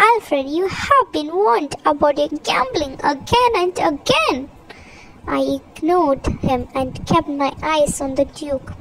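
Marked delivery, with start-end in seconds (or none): 0.1-4.4 stern scolding, pitch rising at the end; stern reproof. Acted. Henry warning Alfred about gambling, stern. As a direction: scold with swinging emphasis, climbing at the close. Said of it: "Henry said sternly".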